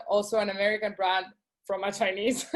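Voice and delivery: fast, laughing through the words; real chuckle while making the joke; amused, laughing as she speaks. Real, not acted. Joking aside about brand origins.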